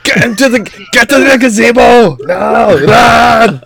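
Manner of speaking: playful shout at a film character; mock yell. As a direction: yell a warning to the hero. Yelling at movie characters.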